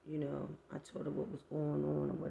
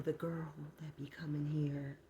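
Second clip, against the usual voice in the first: unvoiced gossiping whisper; 2 semitones lower, 5 dB quieter than usual. Neighbour gossiping quietly.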